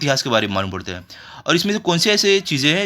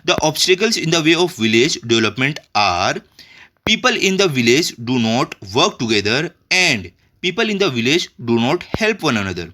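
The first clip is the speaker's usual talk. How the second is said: slow, deliberate reading aloud; unhurried textbook read-out; slow dictation; much slower than usual. Shown as a demonstration. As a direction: dictate each word for the class to copy. Reads textbook answer aloud slowly.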